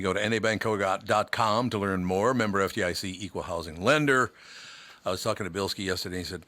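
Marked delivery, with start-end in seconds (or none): 0.0-4.3 quick, brisk radio ad read; fast announcer sponsor read. Acted. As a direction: rattle off the sponsor tag fast. Sponsor read at show start.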